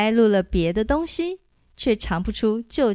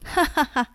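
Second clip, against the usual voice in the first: big open ha-ha-ha of delight; hearty laugh; 5 semitones higher than usual. Acted. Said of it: "洪七公哈哈大笑".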